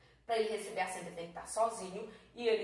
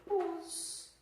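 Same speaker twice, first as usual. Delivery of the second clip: syllable by syllable; 8 semitones higher than usual. Shown as a demonstration. Teacher splits the word into syllables.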